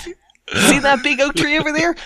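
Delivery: slow, high squeaky bat; squeaky clicking bat. Acted. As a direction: draw it out as a sly bat. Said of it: "says the bat".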